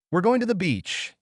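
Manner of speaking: put-on high, eager child calling out to her dad. A narrator's reading. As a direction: call it out as she runs off. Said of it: "she called out".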